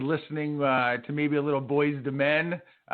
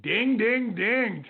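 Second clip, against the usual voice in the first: imitated bell ding; 7 semitones higher, 3 dB louder, much slower than usual. Game show correct-answer bell.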